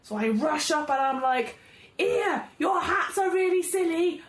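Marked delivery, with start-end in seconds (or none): 2.0-4.2 shouting taunt. Acted. Goblin taunting guards loudly.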